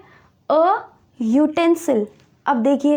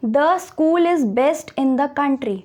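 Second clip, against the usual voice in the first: very slow, word by word; slow example read; much slower than usual. Shown as a demonstration. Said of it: "teacher reads example sentence".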